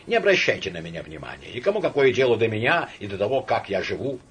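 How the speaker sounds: irritated. Acted. Agitated man lashing out.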